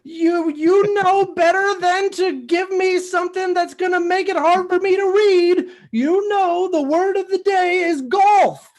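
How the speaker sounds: Big Bird. Acted. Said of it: "you are Big Bird".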